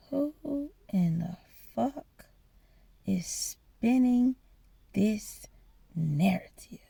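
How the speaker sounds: soft, slow, disbelieving question to yourself; hushed inner monologue with long gaps; thinking to oneself. Retold or imitated. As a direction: ponder it quietly, drawing out each phrase. Inner question, brooding to herself.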